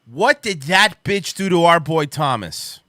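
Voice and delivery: angry. Real, not acted. Outraged rant about a singer.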